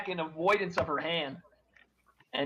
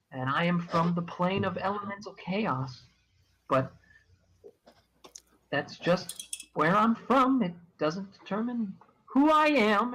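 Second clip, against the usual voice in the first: lit up NPC. Acted. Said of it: "she lights up, and she says".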